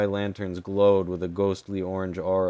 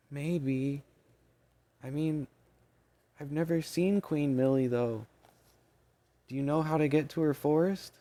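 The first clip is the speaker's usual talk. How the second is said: squeaky fairy voice; 8 semitones higher than usual. Acted. Fairy answers Maney.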